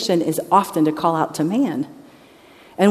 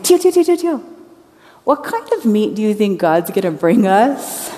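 put-on child calling out; 2 semitones higher than usual. Little boy interrupting again.

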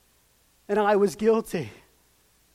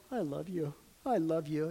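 much softer, lower voicing of Jesus; imagined Jesus whispering love; tender murmur; 4 semitones lower, 9 dB quieter than usual. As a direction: murmur it gently from the cross. Imagined Jesus speaking softly.

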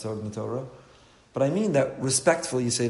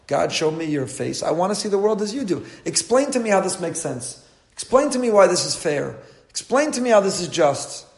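pleading demand; 5 semitones higher, 5 dB louder than usual. Retold or imitated. Moshe pleading before God.

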